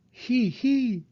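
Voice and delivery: high little giggle; baby giggle. A narrator's reading. Little Peppa and Susie jumping, giggling high. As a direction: giggle as the babies jump.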